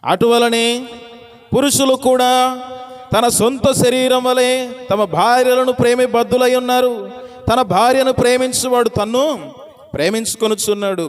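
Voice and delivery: preacher reciting Ephesians with lifted voice; scripture reading. Acted. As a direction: read the verse out to the congregation. Reads scripture verse aloud.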